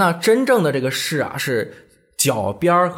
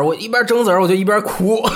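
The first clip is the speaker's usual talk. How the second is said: ordinary delivery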